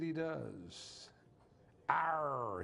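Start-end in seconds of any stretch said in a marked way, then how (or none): 1.9-2.6 growled pirate Arr, a touch louder. Retold or imitated. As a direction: bark it like a salty pirate. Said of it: "he said".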